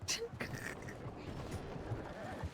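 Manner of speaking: high breathless giggling fit; cracking up, can't keep a straight face; breaking character giggling. Real, not acted. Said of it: "I can't do it with a straight face".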